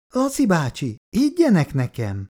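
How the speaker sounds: put-on high, pleading boy's cry; desperate plea. A narrator's reading. Frightened boy begs Uncle Laci to believe him. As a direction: beg them to believe you. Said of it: "kétségbe esetten védekezett".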